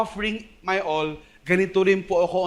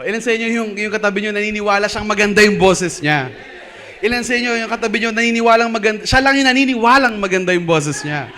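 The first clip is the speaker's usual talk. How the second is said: louder, fast teasing with a laugh; playful teasing; 3 semitones higher, 5 dB louder, faster than usual. Real, not acted. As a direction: rib the crowd playfully, laughing. Teasing congregation about voices.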